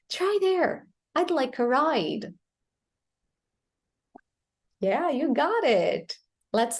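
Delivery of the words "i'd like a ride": "ride" ends on D, "like" on K; no E after "like" or "ride"; silent final E. Shown as a demonstration. Teacher has learners try it, silent final E. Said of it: "not the E sound".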